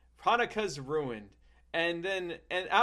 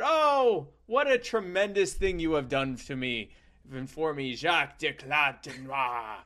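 put-on grateful child. Young self voiced in story.

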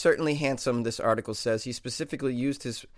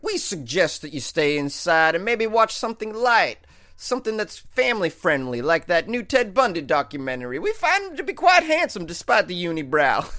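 police voice; 4 semitones higher, 3 dB louder than usual. Pretend. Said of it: "it'd be really funny if they were like".

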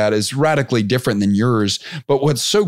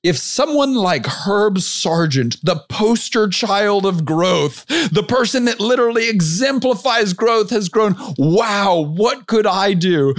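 much higher and slow, awestruck; excited member quote; 10 semitones higher, slower than usual. Retold or imitated. Quoting a member's amazed message to the host, high slow awe. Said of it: "I wish I could do his accent, but I can't do his accent".

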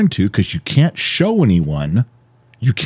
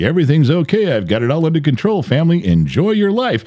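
high, quick call of reassurance; everything-is-fine act, pitched up; putting on reassurance; 7 semitones higher than usual. Acted. Husband calling to his family from atop the dam, reassuring.

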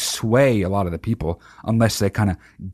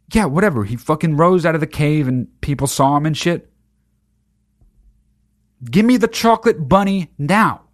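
put-on raised, bored kid brushing it off; dismissive kid; 3 semitones higher than usual. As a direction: rattle it off just to get the candy. Kid demanding chocolate bunny.

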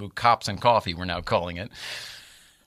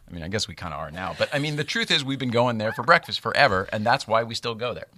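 ordinary talk

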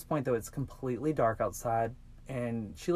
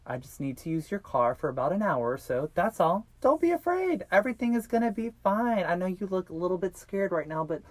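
higher, louder reassuring kidnapper; retold reassurance; 4 semitones higher, 3 dB louder than usual. Kidnapper telling a captive not to be afraid, mock reassurance. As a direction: lift the voice to talk a scared victim down.

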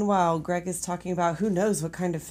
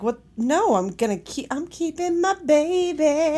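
shocked protest; 7 semitones higher than usual. Retold or imitated. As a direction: refuse in shocked disbelief. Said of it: "she was like".

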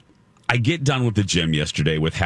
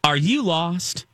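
security guard; 9 semitones higher, slower than usual. Retold or imitated. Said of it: "she goes".

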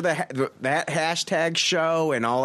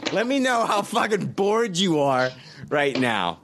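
sarcastic; 4 semitones higher than usual. Acted. Sarcastic rant at yawning cohost.

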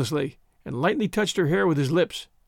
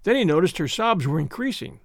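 plain reading voice

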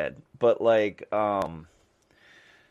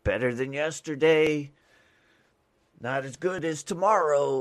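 recited motto; 5 semitones higher, 3 dB louder than usual. Retold or imitated. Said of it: "it was something like".

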